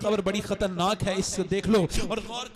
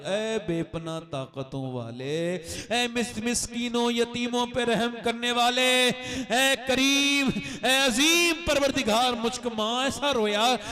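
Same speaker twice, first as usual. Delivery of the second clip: louder, slow, rising call to God; impassioned invocation; 4 semitones higher, 6 dB louder, slower than usual. Acted. Preacher calling on the merciful Lord, slow and loud. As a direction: cry out the names of God, stretched.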